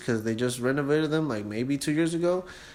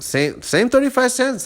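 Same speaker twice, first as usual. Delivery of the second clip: triumphant; 11 semitones higher, 5 dB louder than usual. Real, not acted. Triumphant cheap fare.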